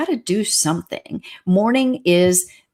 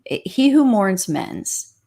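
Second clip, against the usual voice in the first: each word set down slowly, like a proverb; slow it right down so the saying lands; slow, weighty maxim; much slower than usual. Shown as a demonstration. Counselor teaching a maxim to grieving listeners, slow and weighty.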